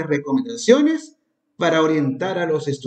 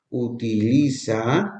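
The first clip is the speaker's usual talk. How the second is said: very slow; 4 semitones lower, much slower than usual. Shown as a demonstration. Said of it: "dice lo siguiente".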